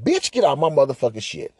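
composed, mock-respectful dismissal; mock polite. Man telling his date to leave, mock polite. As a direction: keep an insult calmly courteous. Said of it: "I told her respectfully, politely".

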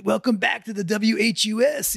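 mock radio DJ. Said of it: "a nineteen seventies radio disc jockey".

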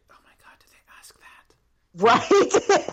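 hushed, slowed whisper of disbelief; shocked whisper. Retold or imitated. Host mocking her own shock at a question, slow whispered disbelief. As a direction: breathe it out in stunned disbelief.

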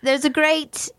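put-on British voice, a little mannered; British accent. Host recapping a puppet show, put-on British accent. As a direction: narrate in a playful British accent. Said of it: "do this whole section in a British accent".

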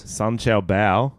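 slow, drawn-out Chinese accent; mock Chinese accent, slow. Shown as a demonstration. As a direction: stretch the name out in a Chinese accent. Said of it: "in a racist accent".

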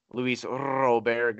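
Robert with a trilled, rolled R. Shown as a demonstration. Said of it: "I still like to roll the R's".

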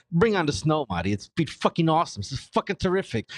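sarcastic. Real, not acted. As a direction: fake cheer through annoyance. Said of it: "Look how fucking happy I sound right now".

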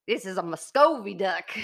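lightly put-on Canadian accent, Muscovy as "mus-KOH-vee" with laughter; a hint of Canadian, with a laugh; mock Canadian accent. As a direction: playfully fake a Canadian accent. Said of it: "a Canadian accent".

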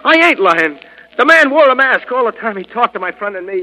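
high, loud scared denial; begging to be believed; frightened pleading. Acted. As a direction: panicky protest. Robber questioned by the Shadow.

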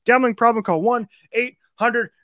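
rapid-fire ad read; auctioneer voice. Real, not acted. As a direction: rattle through the sponsor read fast. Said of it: "two minutes of me just going fifty thousand miles an hour".

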